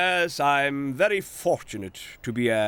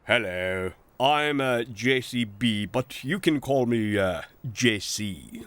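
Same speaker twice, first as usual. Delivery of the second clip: self-important; 3 semitones lower than usual. Acted. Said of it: "said the machine importantly".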